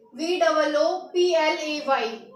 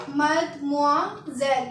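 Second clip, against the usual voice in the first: मदमोआजेल said slowly, syllable by syllable; slow, careful मदमोआजेल; slow pronunciation demo; much slower than usual. Shown as a demonstration. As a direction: spell out मदमोआजेल by sound, slowly. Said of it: "कैसे पढ़ेंगे?".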